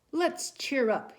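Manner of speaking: high, slow, bright encouraging husband; hopeful father. A narrator's reading. Father urging his grieving wife to cheer up, high and slow. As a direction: lift her spirits slowly. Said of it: "he said".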